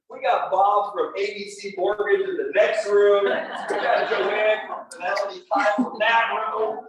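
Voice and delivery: imitating the doctor cracking up as he teases; laughing doctor. Doctor laughs at the patient about fellow agents, slow and laughing. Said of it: "he starts laughing at me".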